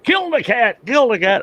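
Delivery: imitating the brother shouting to kill it; brother's mock yell. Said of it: "he's saying".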